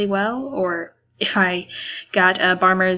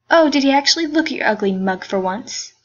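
mocking jerk; 4 semitones higher, 3 dB louder than usual. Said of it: "being a jerk thing".

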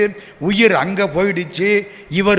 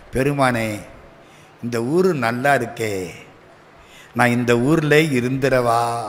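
wistful murmured request to the Lord; tender plea; 6 semitones lower than usual. Acted. Saint speaks longingly to the Lord.

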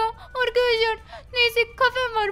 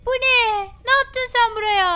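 scolding; 2 semitones higher, 5 dB louder, slower than usual. Acted. Mother scolds child over painted walls.

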